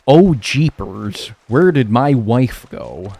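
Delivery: loud, slow hammed-up American accent; British attempt at American accent. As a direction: ham up a fake American accent, stretching each word. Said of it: "British people try to sound like when they're doing an American accent".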